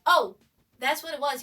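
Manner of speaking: loud sudden oh of realization; surprised realization. Real, not acted. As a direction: it finally clicks, out loud. Realization about her reaction.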